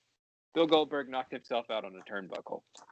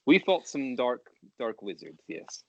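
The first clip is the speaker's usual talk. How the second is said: put-on Russian accent; 4 dB louder, slower than usual. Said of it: "in the Russian accent".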